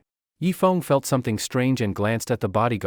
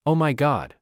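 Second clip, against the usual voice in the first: terrified; 4 semitones higher than usual. Acted. Trio screams in terror.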